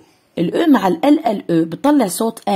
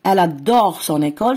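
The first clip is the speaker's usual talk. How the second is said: careful teacher reading; slow model sentence; much slower than usual. Shown as a demonstration. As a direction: read "Elle adore son école" slowly, linking "son école". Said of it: "أوكي؟".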